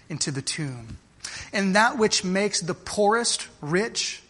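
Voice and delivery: slow, measured recitation with weighty pauses; solemn quotation reading. Acted. Preacher reading an old preacher's words to congregation, solemn and slow. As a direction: read it out phrase by phrase, slowly.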